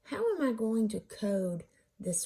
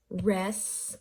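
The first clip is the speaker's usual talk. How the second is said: Res-cue cut into two syllables with a pause between; Res-cue as two evenly weighted, separate beats; separated syllables. Shown as a demonstration. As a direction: say Res, stop, then cue. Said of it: "you're separating your syllables".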